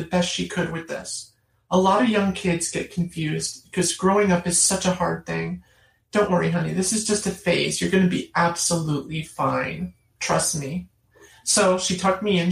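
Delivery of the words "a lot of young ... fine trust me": a hint of a nurse mother comforting; mother calming her child at bedtime; reassuring mom. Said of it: "So she says the following".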